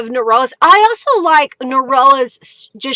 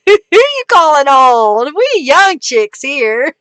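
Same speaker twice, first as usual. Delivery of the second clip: mock sassy. Mock offended about age.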